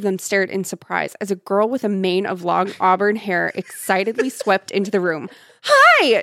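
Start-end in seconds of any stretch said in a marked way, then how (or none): 5.6-6.2 high, loud squealed hello; shouted greeting. A narrator's reading. Excited girl sweeping into the bedroom, shouting. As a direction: burst in and shout it. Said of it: "she shouted".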